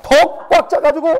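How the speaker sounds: loud, high, effortful push; mock straining. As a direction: imitate the wind blowing with all its might. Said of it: "안간 힘을 써가지고". (안간힘 쓰듯 크고 높게 힘준 소리)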